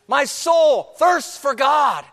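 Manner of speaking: slow, high, loud cry of the verse; preaching shout. Acted. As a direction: shout it out slowly to the church.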